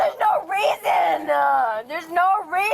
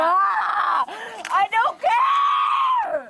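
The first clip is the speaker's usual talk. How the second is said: high, sharp shout; 4 semitones higher, much slower than usual. Real, not acted. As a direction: yell it out sharply. Loud sharp voice.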